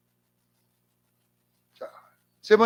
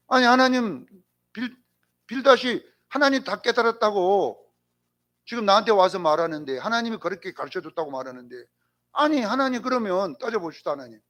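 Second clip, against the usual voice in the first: arguing with God; 3 semitones higher than usual. Retold or imitated. Job confronts God about Bildad's words, argumentative. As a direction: press the complaint as Job would. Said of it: "따지는 거예요 하나님 앞에".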